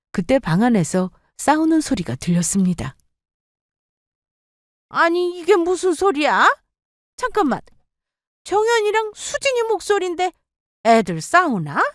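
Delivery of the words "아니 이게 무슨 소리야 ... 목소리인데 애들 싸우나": put-on higher, startled older woman; a mother-in-law puzzled by noise from the room. Mother-in-law hears her daughters fighting, higher and startled.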